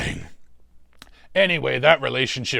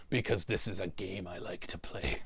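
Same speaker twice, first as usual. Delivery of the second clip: secretive whispered aside; hushed confiding whisper; 5 semitones lower, 11 dB quieter than usual. Real, not acted. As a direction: drop to a hush as if sharing a secret.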